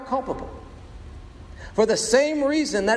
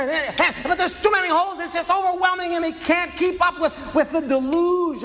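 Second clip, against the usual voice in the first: frantic overwhelm; 7 semitones higher than usual. Acted. Boy at the dike overwhelmed.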